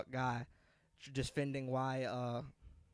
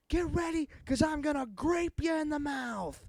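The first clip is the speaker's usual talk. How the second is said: high, loud, slow manic shout; hammed-up villain yell; crazy grape man; 13 semitones higher, 4 dB louder than usual. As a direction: threaten like an unhinged mascot. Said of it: "He was like".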